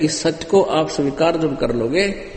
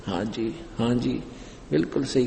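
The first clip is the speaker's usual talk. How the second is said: lightly voiced nodding audience, softer; imitating agreeing listeners; 7 dB quieter than usual. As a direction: murmur small agreements like a devout listener. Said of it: "सभी गर्दन हिलाते थे".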